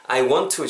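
"I want to" joined smoothly on one T; linked WANT TO. Shown as a demonstration. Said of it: "정도로 발음을 해주셨으면 좋겠습니다". ("I want to"를 t 하나로 자연스럽게 연결)

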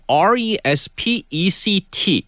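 slow letter-by-letter spelling. Shown as a demonstration. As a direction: spell each letter slowly. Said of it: "spelling word aloud".

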